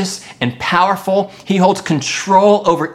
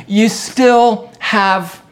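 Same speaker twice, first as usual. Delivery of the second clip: emphatic exhortation; 6 semitones higher, slower than usual. Acted. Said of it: "He was reminding Elijah".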